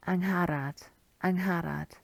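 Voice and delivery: "Angharad" sounded out with stress on HAR; careful name attempt. Shown as a demonstration. Teacher attempting a tricky name, careful "Angharad". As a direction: have a careful go at "Angharad", twice. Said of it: "I'll have a go".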